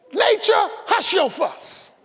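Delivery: high call then slow hush; gentle rebuke. Acted. Jesus hushing the storm, slow and gentle. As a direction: soothe a fussing child.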